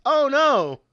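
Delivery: high but limp mock gasp; unenthusiastic oh no. Mocking Trini's bad acting, limp high oh no. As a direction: squeak it with no real fear. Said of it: "the most unenthusiastic".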